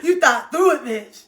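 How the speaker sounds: high laugh spilling into words. Real, not acted. Laughing at the thoughtful partner she imagines, laughing through words.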